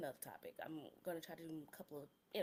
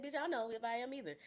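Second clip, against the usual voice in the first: laughing reply; 4 semitones higher, 6 dB louder, faster than usual. Retold or imitated. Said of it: "I said".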